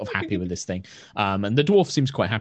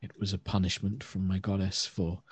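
put-on ashamed old elf; 3 dB quieter than usual. Elder elf to the party, lightly voiced and remorseful. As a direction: confess it gently, weighed down.

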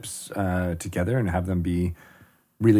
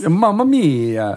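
put-on Italian accent; 7 semitones higher, 5 dB louder, slower than usual. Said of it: "That's really how you speak Italian".

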